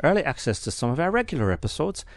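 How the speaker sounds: put-on Irish accent. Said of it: "I'll do it in, in Irish now".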